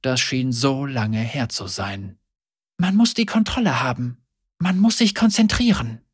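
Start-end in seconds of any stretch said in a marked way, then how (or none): 2.8-6.0 faster, higher echo of a teacher; recalled lesson. A narrator's reading. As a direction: rattle off the old lesson. Remembered instruction.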